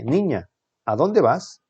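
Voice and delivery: drawn-out exclamation with swooping pitch, falling at the end; surprised exclamation. Shown as a demonstration. Teacher reading the sentence with exclamation marks, surprised exclamation. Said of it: "la única que tiene signos de admiración".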